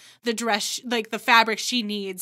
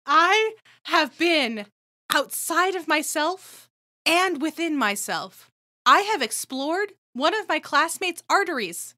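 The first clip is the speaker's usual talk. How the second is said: slow, higher, dramatic pronouncement; grandiose kid; 4 semitones higher, slower than usual. Pretend. Kid refusing fractions, slow grand declaration. Kid's grand rebellious speech.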